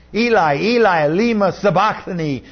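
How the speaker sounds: loud cry. A narrator's reading. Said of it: "cried out in a loud voice".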